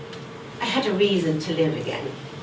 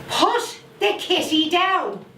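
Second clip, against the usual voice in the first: slow, higher mock shout, held back a little; mild shout; 9 semitones higher, slower than usual. Old lady warns the boy holding the cat, a mild shout. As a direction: call out to the boy, only half raising it. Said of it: "So I shouted him, just a bit".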